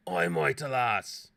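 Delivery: loud, drawn-out lament; mock-tragic outcry. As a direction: cry out like a doomed tragic hero. Mock-tragic cry at wrong answer.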